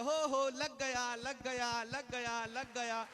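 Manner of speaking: loud, slow gloating cheer that fades; mock triumphant cheer; gleeful cheer. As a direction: crow with delight as the pot hits. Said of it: "उछल के कहती है".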